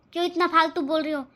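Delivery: fast angry retort. Acted. Sister-in-law fights back.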